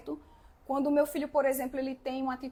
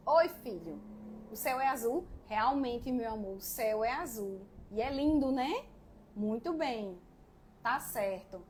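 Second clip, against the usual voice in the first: gentle motherly reply; 4 semitones lower than usual. Retold or imitated. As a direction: answer the little one tenderly and calmly. Mother voicing herself answering child.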